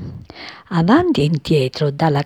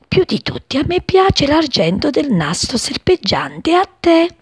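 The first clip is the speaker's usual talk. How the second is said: lightly voiced young sparrow, higher and eager; a small wounded bird dreaming of colours, a touch higher; little sparrow; 4 semitones higher than usual. Wounded sparrow longing to see colours, lightly voiced. Sparrow speaks from her hiding place.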